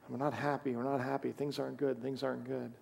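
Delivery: low, soft muttered complaint under the breath; grumbling murmur. Retold or imitated. Pastor voicing the grumbling Israelites, soft murmur. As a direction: mutter it like a crowd grumbling quietly. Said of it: "kind of like a murmur".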